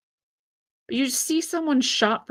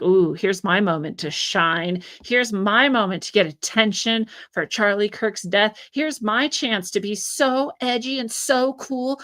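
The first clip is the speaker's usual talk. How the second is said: mock attention seeker. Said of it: "They're like".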